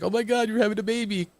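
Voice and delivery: very high, fast mock squeal; mock excited gushing. Co-host mimics a wrestler's reaction to pregnancy, gushing squeal. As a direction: squeal it in a high put-on voice, all in a rush.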